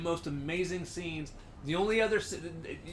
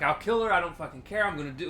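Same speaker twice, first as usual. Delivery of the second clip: mock threat; faster than usual. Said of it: "And he's like".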